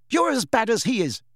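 high, indignant accusation; shout. A narrator's reading. Lily rounding on James, indignant mild shout. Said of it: "Lily shouted, rounding on James".

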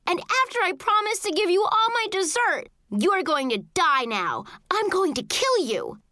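high-pitched sibling threat; furious yelling. A narrator's reading. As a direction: rant at your little brother, pitched high. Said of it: "I yelled and jumped onto his bed".

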